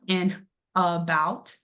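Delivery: about with a weak uh at the start, said slowly; unstressed schwa. Shown as a demonstration. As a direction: show the reduced first vowel in about. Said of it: "that A is unstressed".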